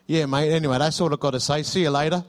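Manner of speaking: lightly imitated Australian accent; breezy sign-off with a touch of Aussie. Caller winds up the call to the pastor, in a light Australian accent. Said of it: "a bloke with an Australian accent".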